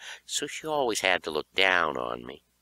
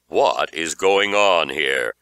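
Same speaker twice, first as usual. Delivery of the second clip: stern mother; 4 semitones lower, 6 dB louder, slower than usual. Acted. Mother confronting children.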